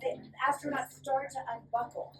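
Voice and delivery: lively storybook read-aloud; reading to children. Acted. Teacher reading a fly's story to the class, lively. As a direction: read it brightly to a room of kids. Reading picture book to kids.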